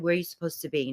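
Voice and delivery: quiet, gentler question; lightly voiced caring guardian; softened protector. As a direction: ask it softly, as a protector would. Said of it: "I picture her kneeling down to me".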